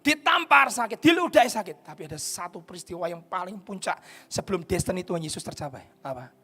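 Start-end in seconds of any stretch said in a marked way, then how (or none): 0.0-1.9 preaching at full force. Acted. Preacher listing the blows Jesus took, loud preaching. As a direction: beat out each blow.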